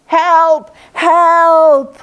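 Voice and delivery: very loud, high tiger yell; growly cry for help. A narrator's reading. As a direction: holler up out of the pit like a growly tiger. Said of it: "cried out in his growly kind of voice".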